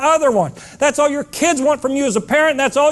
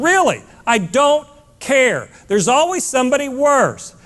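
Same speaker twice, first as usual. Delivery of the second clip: firm parent saying no. Shown as a demonstration. Parent cutting off a grown son, blunt and firm. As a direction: lay down the law to a grown son. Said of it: "You just say it".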